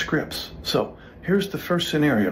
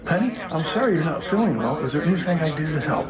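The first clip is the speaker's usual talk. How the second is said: lukewarm sympathy; 4 semitones higher, faster than usual. Shown as a demonstration. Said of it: "that's a little lukewarmish".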